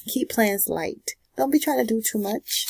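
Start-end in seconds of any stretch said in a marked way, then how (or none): 0.1-1.1 slow and soft, spaced out; slow advice. Shown as a demonstration. Advising viewers to take it easy, slowly. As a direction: let each word land slowly. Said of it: "advice delivered slowly".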